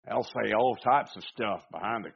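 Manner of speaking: slipping into a Southern twang; Southern accent. Real, not acted. Preacher on keyboard commanders, slipping into a Southern accent. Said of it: "I don't know why it's Southern".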